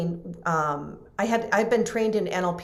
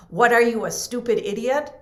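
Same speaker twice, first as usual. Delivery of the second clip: teacher's scolding; 4 semitones higher, 5 dB louder than usual. Retold or imitated. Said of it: "teacher's voice saying".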